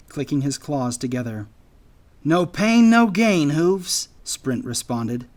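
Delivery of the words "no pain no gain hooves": high, loud squirrel voice; defiant retort. A narrator's reading. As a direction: fire back boldly, pitched up. Squirrel brushes off friend's warning.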